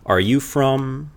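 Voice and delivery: slow "are you from" with a high rise; exaggerated rising question for the class; question intonation. Shown as a demonstration. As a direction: lift the pitch on "you" and draw it out. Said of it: "question mark".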